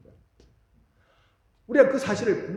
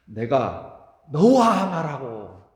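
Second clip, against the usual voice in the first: loud and very slow, word by word; preacher stressing the promise to the congregation; slow emphasis; 4 semitones lower, 6 dB louder, much slower than usual. Acted. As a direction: let every word land. Key verse repeated.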